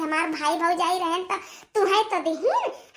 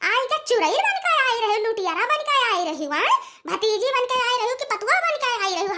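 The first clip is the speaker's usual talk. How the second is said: angry scolding; 4 semitones higher than usual. Acted. Furious scolding of daughter-in-law.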